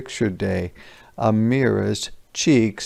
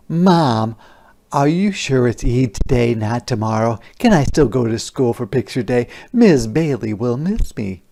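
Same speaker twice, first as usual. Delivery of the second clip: put-on pleading child. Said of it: "pleaded or begged Amira".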